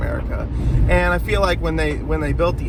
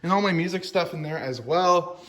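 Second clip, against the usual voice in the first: garage reverb. Real, not acted. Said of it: "sorry for the, uh, reverb in here".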